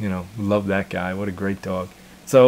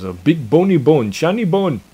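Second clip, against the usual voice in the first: excited high-pitched manic dog voice, louder; crazed dog voice; 7 semitones higher, 4 dB louder than usual. Retold or imitated. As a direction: shout it like a dog crazy about a bone. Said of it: "running around going insane about".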